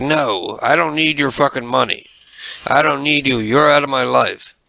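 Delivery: put-on heated, angry, cutting, rejecting tone. Retelling how a friend refused offered money: imitating someone angry. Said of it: "he got all angry with me".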